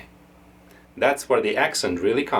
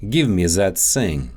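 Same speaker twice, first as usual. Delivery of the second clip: Russian accent; 3 semitones lower than usual. Shown as a demonstration. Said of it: "you could shift both of them".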